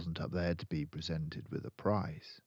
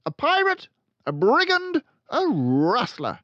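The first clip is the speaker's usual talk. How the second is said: much louder, much higher scream; 12 dB louder than usual. Acted. Headmistress accusing the boy, screaming. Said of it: "the Trunchbull screamed".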